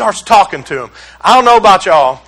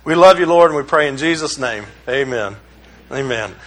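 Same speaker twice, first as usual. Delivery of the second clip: pray, settling lower and softer to the end; closing prayer; 5 semitones lower, 4 dB quieter than usual. Real, not acted. Preacher closing the congregation's prayer, settling softly. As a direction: wind a prayer down reverently.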